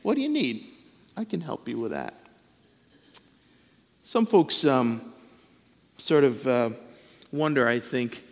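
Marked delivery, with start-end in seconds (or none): 0.0-2.1 lifted caring question then soft offer; tender mother offering help. Retold or imitated. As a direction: ask like a loving mother. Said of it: "God, like a good mother, enjoys saying".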